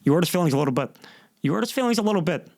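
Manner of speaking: mock-tough gangster ribbing, lightly voiced; Robert De Niro. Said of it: "That's a Goodfellas reference, and that's Robert De Niro".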